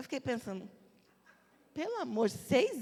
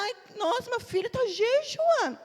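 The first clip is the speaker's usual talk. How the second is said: soft proud parent; 8 semitones higher than usual. Retold or imitated. Pastor mocking parents who praise a weak fast, cooing. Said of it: "tem pai e mãe que fala".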